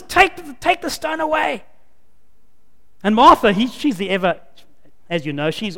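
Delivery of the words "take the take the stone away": raised, ringing command to open the tomb; commanding order. Retold or imitated. Jesus ordering the stone rolled from Lazarus's tomb, commanding call. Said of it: "he orders".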